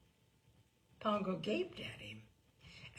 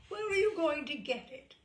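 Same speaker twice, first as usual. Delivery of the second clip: higher, louder sharp demand; scornful challenge; 8 semitones higher, 7 dB louder than usual. A narrator's reading. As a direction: pin him down with scorn.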